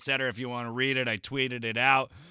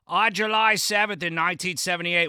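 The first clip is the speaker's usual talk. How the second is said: loud, pitched-up bad fake Boston accent; 6 semitones higher, 5 dB louder than usual. Reading a Celtics Wire excerpt aloud in a piss-poor Boston accent. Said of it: "read from Celtics Wire in a piss-poor Boston accent".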